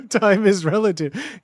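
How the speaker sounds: slow, mock robotic physicist voice; lightly done robot voice, dragged out slowly; Stephen Hawking impression. Streamer trying his own Stephen Hawking impression, slow and robotic. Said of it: "my Stephen Hawking impression".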